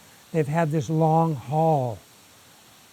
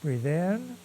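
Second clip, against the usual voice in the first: calm, sparse cues with long silences; slightly hushed breathing instructions, unhurried; guided breathing meditation. Shown as a demonstration. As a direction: guide each breath gently, leaving long pauses.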